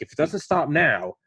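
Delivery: mild mock fatherly scolding; stern father. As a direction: lecture him like a dad, firmly. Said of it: "I felt like I was getting disciplined by my father".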